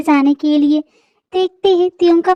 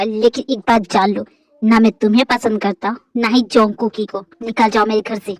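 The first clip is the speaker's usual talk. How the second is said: lowered, cold accusing male voice; angry husband; 6 semitones lower than usual. Acted. Husband throwing his wife out, lowered and cold. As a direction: lay out every betrayal, deep and hard.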